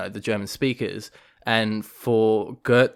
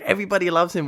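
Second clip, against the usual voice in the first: higher, smooth German officer voice, lightly put on; Gert impression; 8 semitones higher, faster than usual. Gert vouching for Schindler, mock suave officer voice. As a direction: purr the line like the suave camp officer. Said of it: "the way he said".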